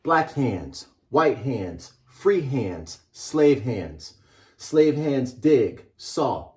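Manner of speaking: measured storybook read-aloud. Acted. Author reading his book to a class, measured and rhythmic. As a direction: read it like a picture book to children.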